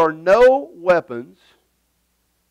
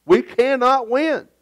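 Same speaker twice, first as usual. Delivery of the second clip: hopeless lament; 9 semitones higher, slower than usual. Retold or imitated. Preacher mocking hopeless team.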